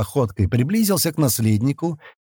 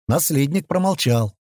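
usual speaking voice

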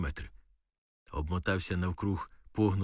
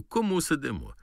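army jargon; 6 semitones higher than usual. Retold or imitated. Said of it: "по-армійському запарюю".

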